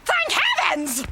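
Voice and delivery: relieved exclamation. Acted. Bernice cries out in relief that her crush is a man. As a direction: blurt it out, overjoyed.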